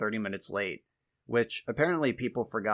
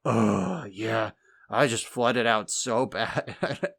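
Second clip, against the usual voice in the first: slow, louder mock lament; whiny friend; 4 dB louder, much slower than usual. A spectator's friend telling a bad beat story, mock slow whine. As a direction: drag out the bad-luck whine. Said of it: "just came up and was like".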